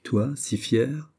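slow, scornful question; disdainful. Acted. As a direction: let the scorn drip, slowly. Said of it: "dit avec dédain la marquise". (avec dédain, lentement)

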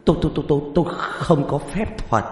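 high, loud stammering protest; hammed-up terrified shouting; panicked refusal. A narrator's reading. Frantic refusal to go into water.

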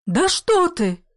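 high startled outcry; a grandmother jolted awake by the news; startled cry. A narrator's reading. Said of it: "крикнула бабушка".

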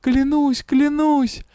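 high pleading cries; desperate oath. A narrator's reading. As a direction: swear it in panic.

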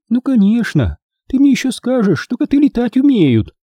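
high-pitched, sarcastic grandmother; high, scoffing old-lady voice; Maisie grumbling. A narrator's reading. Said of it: "проворчала Мэйзи".

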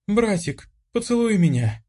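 high, dreamy, sighing plea; dazed girl sighing for a kiss from her brother; languid sigh. Acted. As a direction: sigh it half-awake and lovestruck. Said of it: "её томный вздох".

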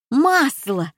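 high-pitched excited cry. A narrator's reading. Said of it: "закричала Нина". (высокий возбуждённый выкрик)

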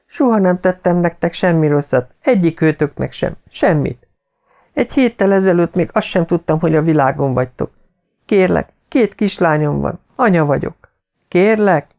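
high, desperate begging; Nancy begging Greg and Art for her life, high and urgent; pleading mother. Acted. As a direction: plead for her little daughters' sake. Captive mother begs for life.

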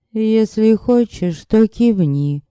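high, slow, luring female voice; otherworldly woman's voice. A narrator's reading. Unseen woman tells Yanek to nod, otherworldly female voice. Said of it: "спросил женский голос".

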